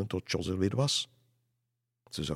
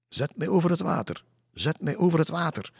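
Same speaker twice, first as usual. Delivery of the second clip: high, shrill eerie wail; akelig schril stemmetje; 10 semitones higher, 5 dB louder than usual. A narrator's reading. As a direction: imitate a water spirit calling shrilly across the water. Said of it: "met die akelige schriel stem". (akelige, schrille, hoge roepstem)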